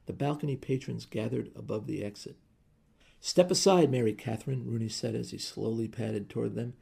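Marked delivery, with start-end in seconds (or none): 3.2-4.7 loud command. Acted. Husband commanding his wife.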